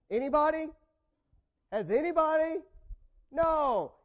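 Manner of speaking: loud, high challenge to the room; preacher's shout. Real, not acted. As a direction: call the whole church out.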